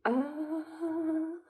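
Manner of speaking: imitated long, high, rising "ah"; held high reaction noise; drawn-out "ah". Acting out a listener's stunned reaction.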